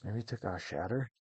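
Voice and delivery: yawning while talking. Real, not acted. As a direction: say it through a yawn. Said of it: "I keep yawning".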